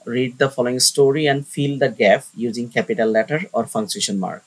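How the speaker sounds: slow, word-by-word reading of the task; dictating the instructions; slow dictation reading. Shown as a demonstration. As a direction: read it out slowly for the class to copy. Reads task aloud slowly.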